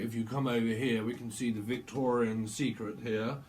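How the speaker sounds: lightly put-on posh English host; a touch of posh gallery guide; posh accent. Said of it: "Someone posh".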